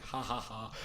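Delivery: spoken ha-ha-ha, imitating laughter; God's mocking laugh. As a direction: play an amused God laughing at the climbers. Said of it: "God's like".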